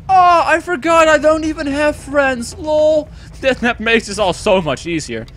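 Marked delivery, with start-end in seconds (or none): 0.1-3.1 mock self-pity. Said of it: "And I'm like".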